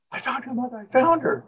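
imitating the wife's thrilled announcement; excited. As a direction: blurt it out, thrilled. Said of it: "What did you find?".

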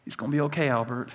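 low, hushed self-soothing; under his breath. Acted. Dad in checkout line with crying toddler, under his breath. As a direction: murmur it low and soft, with long pauses. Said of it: "simply says under his breath".

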